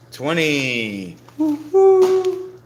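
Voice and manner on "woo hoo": high, loud whoop; loud woo-hoo. Real, not acted. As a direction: cheer it out big. Cheering at the finish.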